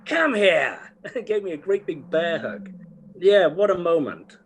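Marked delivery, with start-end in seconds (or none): 0.1-0.8 drawn-out, high put-on voice; John Hurt. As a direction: imitate an actor beckoning someone in for a hug, high and slow. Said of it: "He went".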